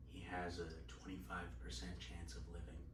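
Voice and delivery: low, very soft near-whisper; imitated whisper. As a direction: imitate a doctor whispering to a parent. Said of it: "He was whispering to my mom".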